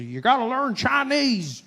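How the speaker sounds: high, loud mock alarm; hammed-up panicked advocate. Comic mimicking people urging everyone to learn Chinese, mock-frantic shout. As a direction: stretch it into a comic high holler. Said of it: "I see people say".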